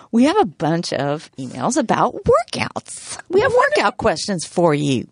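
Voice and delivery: lightly put-on church lady voice with swooping pitch. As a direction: slip into a mild church lady impression. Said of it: "Are you church lady right now?".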